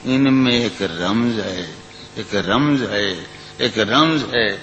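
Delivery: lilting, sung-through recitation of a ghazal; poetry recitation. Acted. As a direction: recite it like at a mushaira. Recites the poem.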